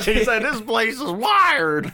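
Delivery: high, slow, laughing through it; cracking up while mimicking; laughing quote. Friend quoting the shocked farmer while laughing.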